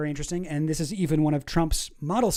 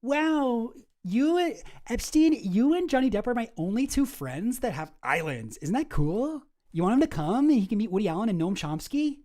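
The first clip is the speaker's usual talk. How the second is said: higher, gushing fanboy voice; mocking Krauss; 5 semitones higher than usual. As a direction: gush like an eager fan, pitched up. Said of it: "Lawrence Krauss was like".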